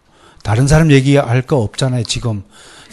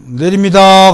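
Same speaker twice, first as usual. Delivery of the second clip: polite Seoul call-out, higher and louder; Seoul accent; 6 semitones higher, 6 dB louder, slower than usual. Shown as a demonstration. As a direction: demonstrate a Seoul passenger calling for the stop. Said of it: "그렇게 서울 사람들 이렇게 하는 건". (서울 말씨로 내린다고 외치기)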